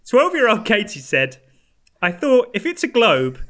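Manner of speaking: real laughter breaking the quote; laughing through it. Real, not acted. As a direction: try to read it while cracking up. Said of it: "I'm crying".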